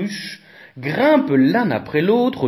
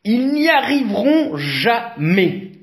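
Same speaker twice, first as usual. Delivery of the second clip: high, louder scoffing voice; doubting onlooker; 8 semitones higher, 3 dB louder than usual. A narrator's reading. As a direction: toss off a doubtful remark. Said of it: "lance un badaud".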